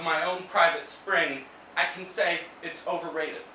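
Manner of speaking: measured poetry reading with long pauses; poem recital. Acted. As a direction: read it as verse, phrase by phrase. Reads own poem aloud.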